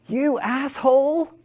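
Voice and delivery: high, slow, yelled insult at a driver; angry insult. Retold or imitated. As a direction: spit out the insult like a road-rage driver. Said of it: "He looks at me and he goes".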